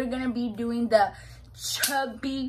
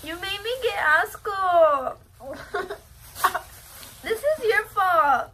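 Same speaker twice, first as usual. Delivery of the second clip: slow, higher, through stuffed cheeks; mouth full; 8 semitones higher, 4 dB louder, slower than usual. Real, not acted. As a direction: struggle to talk with mouth crammed. Gagging on marshmallows.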